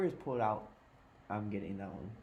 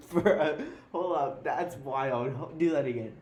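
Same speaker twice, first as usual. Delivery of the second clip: amazed; 3 semitones higher, 5 dB louder, slower than usual. Real, not acted. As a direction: burst out in disbelief. Amazed by friend's voice.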